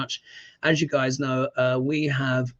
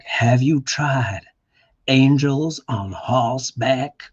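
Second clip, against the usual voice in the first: slow suggestive waitress; 2 semitones lower, 3 dB louder, slower than usual. Retold or imitated. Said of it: "she's like".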